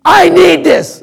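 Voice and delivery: put-on high, pleading little-kid voice; mock child begging a parent; whiny kid. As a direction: beg like a child who wants something now. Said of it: "Having little kids".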